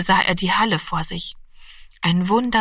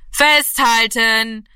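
louder, drawn-out slow call; called warning; 3 semitones higher, 4 dB louder, much slower than usual. A narrator's reading. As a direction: shout the warning up to the boy. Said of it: "rief Gaeto". (langgezogener Warnruf)

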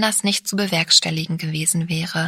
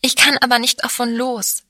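blurted out; 5 semitones higher, 4 dB louder than usual. A narrator's reading. Sabine blurts her confession to the narrator. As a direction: burst out, a bit higher and louder. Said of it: "stieß sie hervor".

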